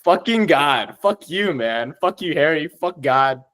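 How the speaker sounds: happily fed-up venting; joyful anger. Real, not acted. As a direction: curse with gleeful frustration. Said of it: "the most happy I've ever been being angry".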